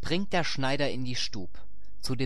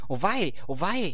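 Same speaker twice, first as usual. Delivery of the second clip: higher-pitched cry of dismay; storybook wail, higher voice; 8 semitones higher than usual. A narrator's reading. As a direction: call out the lament as the hunter's wife. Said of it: "da rief die Frau".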